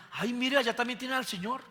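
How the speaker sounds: high, delighted mock exclamation of discovery; naive surprised exclaim. Israelites arriving in Canaan exclaim to each other, in mock delight. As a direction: play the gullible Israelites pointing it out.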